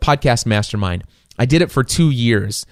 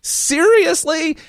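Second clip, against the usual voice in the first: stunned disbelief; slower than usual. Retold or imitated. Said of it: "And I'm like".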